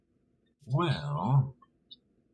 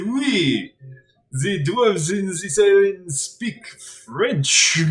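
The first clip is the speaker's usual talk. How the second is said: put-on French accent; 3 semitones higher, 4 dB louder, slower than usual. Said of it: "I said".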